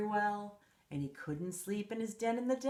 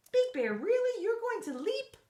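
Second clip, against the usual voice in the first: high, astonished question; amazed; 11 semitones higher, 4 dB louder than usual. Acted. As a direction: gasp it out in disbelief. Narrator amazed at bear.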